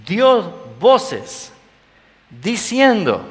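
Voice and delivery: high, loud echoing cry. Acted. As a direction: call it out as if the man were screaming. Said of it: "De pronto comienza a gritar".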